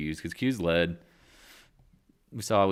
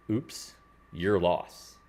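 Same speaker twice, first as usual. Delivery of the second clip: mocking; 3 dB louder, much slower than usual. Mocking the client.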